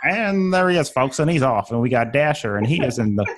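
a hint of a 1920s horse race announcer; old-timey race caller. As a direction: call the race like old radio, lightly. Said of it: "the guy who just announces horse races in the twenties".

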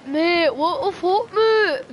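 high, loud laugh-cry of disbelief. Real, not acted. Gamer losing it at an absurd death, laughing.

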